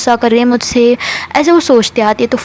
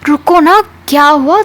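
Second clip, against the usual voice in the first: high, louder plea to wait; calling out; 6 semitones higher, 3 dB louder than usual. Retold or imitated. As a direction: call after her, pleading. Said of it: "ऐसे वो दो तीन बार बुलाती है".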